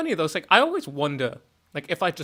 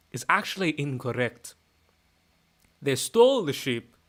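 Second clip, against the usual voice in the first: rambling Scottish pub-talk; conversational Scots, sweary and matter-of-fact; Scottish accent. Pretend. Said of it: "my Scottish accent is".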